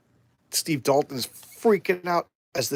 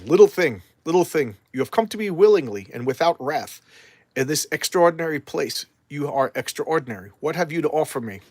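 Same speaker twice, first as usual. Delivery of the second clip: darkness entity. Acted. Ancient darkness greeting Swamp Thing, grand and lightly voiced. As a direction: speak down to a small visitor like an ancient power.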